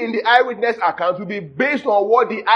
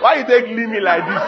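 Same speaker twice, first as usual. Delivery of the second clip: mock pidgin English. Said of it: "The real pidgin of that is".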